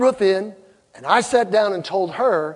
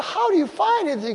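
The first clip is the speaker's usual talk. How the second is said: incredulous husband; 11 semitones higher than usual. Retold or imitated. Husband quoting his own question.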